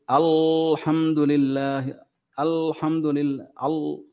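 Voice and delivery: الحمد لله read slowly with the vowels stretched and heavy; wrong drawn-out reading. Retold or imitated. Teacher mimicking a reciter's overlong, heavy الحمد. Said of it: "فيطيل زمنها ويغلظها".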